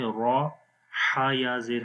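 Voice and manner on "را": a full-mouthed 'raw' for را; heavy raa. Shown as a demonstration. Teacher naming the rule, را pronounced heavy. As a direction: say را thick and rounded. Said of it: "اس کو موٹا پڑھیں گے".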